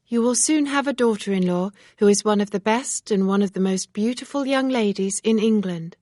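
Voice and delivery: reproachful young woman, lightly voiced; Emma, earnest and disapproving. Emma congratulates Mr Weston.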